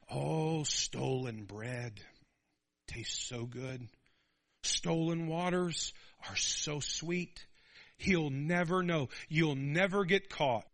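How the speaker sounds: slow tempting whisper of the adulteress; seductive woman. Retold or imitated.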